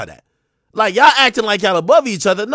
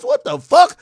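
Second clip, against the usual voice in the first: outraged shout; 11 semitones higher than usual. Real, not acted. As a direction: blurt it out in disbelief. Outraged reaction mid-rant.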